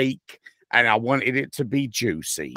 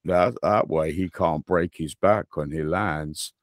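a hint of a spoilsport expert, pitched lower; mock know-it-all; 5 semitones lower, 4 dB quieter than usual. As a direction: lightly imitate a friend explaining the trick. Imitating know-it-all friend's explanation.

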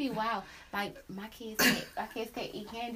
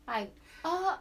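mock prissy girl; 3 semitones higher, 6 dB louder, slower than usual. Voicing the girl with glasses.

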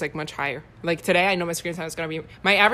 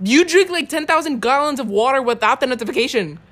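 teasing accusation; 5 semitones higher than usual. Real, not acted. Teasing accusation about water app.

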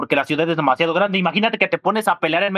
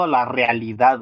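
drawn out like air quotes; said slowly; 5 semitones lower, slower than usual. Real, not acted. Friend hedging how realistic the film is, said slowly. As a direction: set it apart as if in quote marks. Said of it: "lo dije lento para que se notara".

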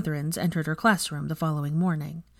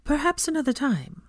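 tense; 9 semitones higher than usual. A narrator's reading. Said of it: "somewhat tensely".

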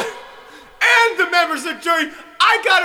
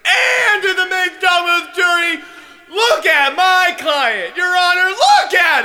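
mock sobbing plea. Defense lawyer's overwrought plea.

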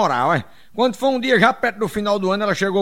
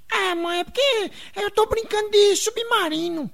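voz de menino bem aguda, arrastada; Sininho; 14 semitones higher than usual. Acted. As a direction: falsete infantil manhoso, devagar. Menino Sininho responde à mãe. (menininho se explicando em falsete)

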